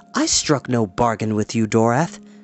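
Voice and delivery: ordinary talk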